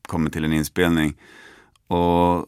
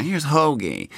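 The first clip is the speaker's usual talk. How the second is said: Nick Cage introducing; 7 semitones higher, slower than usual. Retold or imitated. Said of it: "vänder han sig tillbaka mot mig och säger".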